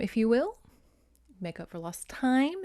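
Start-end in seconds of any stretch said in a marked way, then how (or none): 1.4-2.6 "time" lifted with a knowing rise; hint at a double meaning on "time"; suggestive. Real, not acted. Repeats euphemism with a hint.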